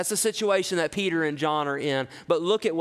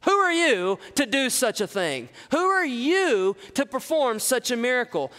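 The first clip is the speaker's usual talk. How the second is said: scornful; 4 semitones higher than usual. Shown as a demonstration. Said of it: "This has a scornful taste to it".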